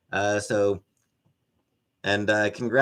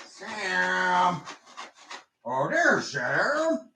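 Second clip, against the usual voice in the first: cooing at cat; 5 semitones higher, much slower than usual. Real, not acted. Spots the cat Sam.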